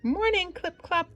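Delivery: calling out. A narrator's reading. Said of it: "they called".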